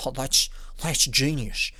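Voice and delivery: slow, put-on awed voice; imagined admirer. Onlooker admiring an invention, mock awe. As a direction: drag it out in mock wonder. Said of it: "you'll be like".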